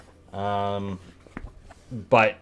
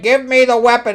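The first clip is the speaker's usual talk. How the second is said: mock angry demand; 12 semitones higher, 5 dB louder than usual. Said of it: "his personality to anger".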